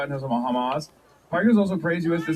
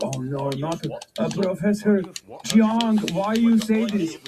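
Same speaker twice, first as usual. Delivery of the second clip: mock alarm; 5 semitones higher, slower than usual. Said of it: "They're like".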